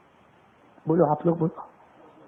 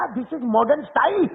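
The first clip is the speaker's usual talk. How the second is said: high, very slow condescending English; haughty English; 5 semitones higher, much slower than usual. Retold or imitated. Young man telling the preacher jeans are modern style, condescending. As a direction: drawl it out like a know-it-all. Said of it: "مجھے کہا".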